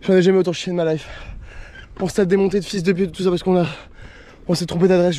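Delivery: panting while climbing a hill; out of breath. Real, not acted. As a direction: talk between gasps for air. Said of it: "j'ai plus de souffle".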